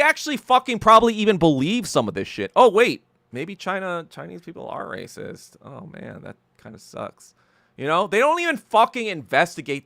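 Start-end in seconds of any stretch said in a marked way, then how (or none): 2.5-7.3 sarcastic sudden thought dropping to a mutter; mock dawning realization. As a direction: fake surprise that fades to a deadpan aside.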